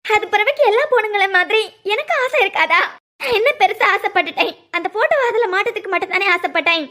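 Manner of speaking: crying self-pity; tearful. Acted. Crying woman complaining over the photo, tearful. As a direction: lament it as if wronged. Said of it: "எதுக்கு அழுதுட்டு இருக்க".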